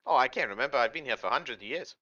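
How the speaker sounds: a hint of Boston-accented hag; night hag at home. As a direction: chat hesitantly as an old night hag.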